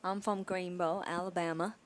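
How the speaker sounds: put-on light Alabama accent; Forrest Gump. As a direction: attempt a gentle Southern US accent. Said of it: "I'm not very good at accents".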